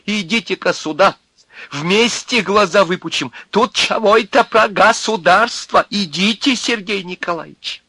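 high, taunting holler; loud mocking invitation; shouted summons. A narrator's reading. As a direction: call him over at full voice. Князев keeps hollering for the boss.

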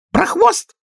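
sudden shrill squeal on хвост; high squealing cry; shriek. A narrator's reading. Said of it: "она вдруг взвизгнула".

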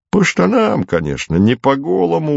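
soothing, matter-of-fact soldier; calm them down lightly; reassuring. A narrator's reading. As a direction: soldier reassuring the worried sisters. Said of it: "успокоительно сказал Фиников".

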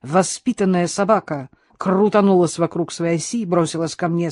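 ordinary delivery, nothing marked

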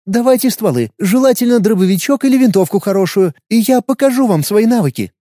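put-on high, keen girl's voice; eager young woman. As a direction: ask eagerly for weapons. Anya asks for guns.

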